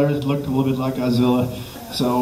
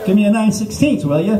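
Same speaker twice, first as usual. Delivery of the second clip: higher, a touch put out; mildly annoyed demand; 5 semitones higher than usual. Acted. Stranded driver asking for a wrench, mildly annoyed demand. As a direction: demand it with a bit of attitude. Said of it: "you're not real happy".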